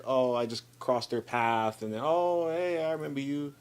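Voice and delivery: imitating a casual passing hello; mock offhand greeting, voice rising midway. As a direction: act out bumping into an acquaintance. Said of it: "like, casually".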